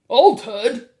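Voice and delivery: loud, incredulous bark; shouted. A narrator's reading. Mr. Jenkins questions the grandmother, shouting. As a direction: explode at the word in disbelief. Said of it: "shouted Mister Jenkins".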